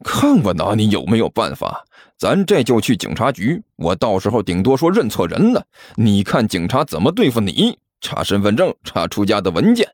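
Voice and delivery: low, cool intimidation; low-voiced taunting menace; sneering threat. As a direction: list the consequences with cold satisfaction. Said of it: "齐健冷笑着说道".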